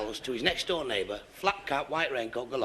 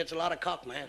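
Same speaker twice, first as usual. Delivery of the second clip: put-on American accent; 5 dB quieter than usual. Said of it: "I'll speak a bit of American for you now".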